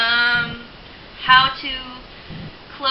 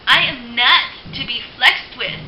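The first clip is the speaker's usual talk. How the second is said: don't mess with me; 3 semitones higher, 6 dB louder, slower than usual. Retold or imitated. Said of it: "project a sense of".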